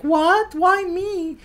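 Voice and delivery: high squeaky shocked cry; shocked squeal. Retold or imitated. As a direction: squeal it in disbelief. March's shocked reaction voiced.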